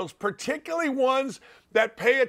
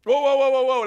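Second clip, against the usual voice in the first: louder, higher call to stop; emphatic whoa; 4 semitones higher, 5 dB louder than usual. Real, not acted. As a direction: hold on, rein them in. Stopping the listener.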